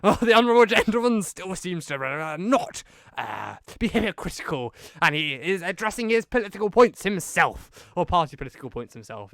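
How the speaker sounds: a hammed-up honourable-gentleman retort; Boris impression. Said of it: "Boris was very much like".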